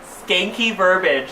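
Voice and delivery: gleeful slow exclamation; delighted slow repeat. Acted.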